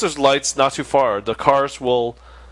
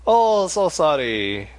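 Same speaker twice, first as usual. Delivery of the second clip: put-on Asian accent; much slower than usual. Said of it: "That's my Asian imitation".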